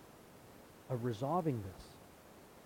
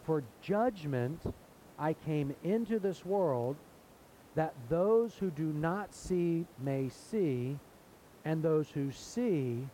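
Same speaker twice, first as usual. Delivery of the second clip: slow solemn pronouncement; slower than usual. Retold or imitated. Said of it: "And then Jesus says this".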